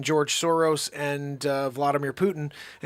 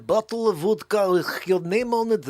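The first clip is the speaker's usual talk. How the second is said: mock Russian accent. Host welcoming guest with vodka, mock Russian accent.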